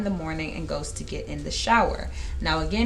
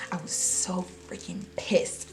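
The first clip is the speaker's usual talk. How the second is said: inner whisper; 6 dB quieter than usual. Retold or imitated. Rowan's inner thought, hushed.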